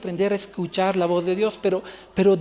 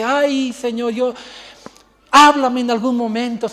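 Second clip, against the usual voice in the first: mock pleading prayer; 3 semitones higher, 5 dB louder than usual. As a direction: parody a believer begging God. Mimics a whiny praying believer.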